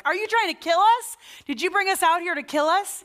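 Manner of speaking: very high, loud frantic accusing; panicked accusation. Retold or imitated. Israelites in the desert accusing Moses, high panicked yell. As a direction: hurl the dramatic accusation at Moses. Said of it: "saying very dramatic things".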